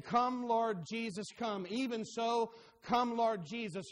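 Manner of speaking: preacher voicing the church's longing prayer, fervent. Shown as a demonstration. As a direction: pray it out longingly, stretching each word. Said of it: "to be saying".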